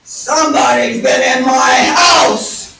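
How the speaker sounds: huge slow bear roar; loud, drawn-out outraged shout; outraged Papa Bear. Acted. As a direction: bellow it as the furious father bear. Papa Bear finds door open.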